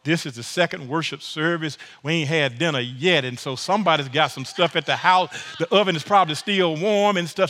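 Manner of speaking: mock host invitation. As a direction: invite them over like a church neighbor. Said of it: "that's like us saying".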